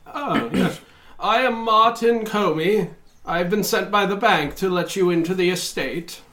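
a hint of a nervous official; lightly voiced fussy banker. GM voicing Martin Comey.

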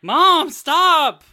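high, loud mortified whine; embarrassed yell. Acted. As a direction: yell at your mom to stop. Embarrassed kid yells at mom.

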